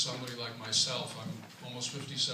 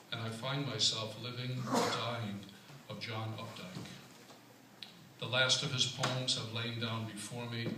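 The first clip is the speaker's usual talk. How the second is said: measured poem recital with pauses between phrases; poetry reading. Acted. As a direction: start each stanza firmly, let the line ends settle. Reads own poem aloud.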